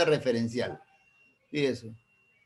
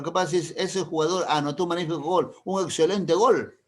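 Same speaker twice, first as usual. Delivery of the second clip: excited praise; 3 semitones higher than usual. Shown as a demonstration. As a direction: sell the goal with enthusiasm. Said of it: "Ahí tiene una carga emotiva". (elogio emocionado y subiendo)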